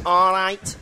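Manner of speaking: Mancunian greeting through the nose; nasal Manchester accent. Shown as a demonstration. Pub owner teaching Manchester hello, nasal Manchester accent. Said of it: "Manchester is very nasally".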